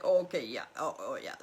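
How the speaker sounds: lightly imitating a flustered father; fumbling, uncomfortable "oh, okay, yeah"; awkward dad. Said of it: "He's kind of like an awkward".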